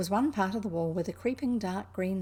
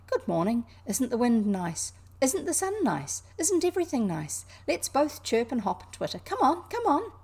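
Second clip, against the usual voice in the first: high, bright bird voice rising; a merry robin calling her to play; chirpy robin; 5 semitones higher, 4 dB louder than usual. Acted. Robin's imagined chirpy speech.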